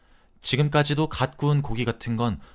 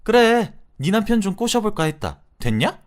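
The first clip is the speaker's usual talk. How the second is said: shrill furious yell, higher and much louder; screaming back; 7 semitones higher, 6 dB louder than usual. Retold or imitated. Cornered friend screams back at the wife, furious yell. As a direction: explode at her, yelling. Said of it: "소리를 빽 지르더라고요".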